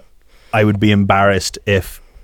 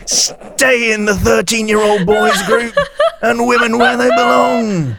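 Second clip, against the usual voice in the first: mock politician voice; 13 semitones higher than usual. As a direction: ham up a pompous party spokesman. Mock politician speech, laughing.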